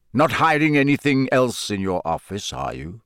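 needling gruff taunt. Acted. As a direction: needle him slyly. Moody needling Snape.

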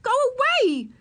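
very high, loud order. A narrator's reading. Hidden girl to the nosy boy, ordering. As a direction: order them off at full pitch. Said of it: "ordered Ramona".

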